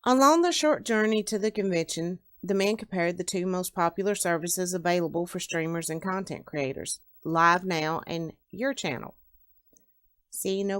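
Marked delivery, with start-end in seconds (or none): 0.0-9.2 measured read-aloud narrator; story narration. A narrator's reading. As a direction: read the opening of a novel to listeners. Reads own story aloud.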